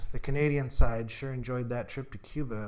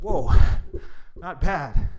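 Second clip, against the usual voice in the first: impressed; 4 semitones higher, 7 dB louder, much slower than usual. Acted. Impressed after the move.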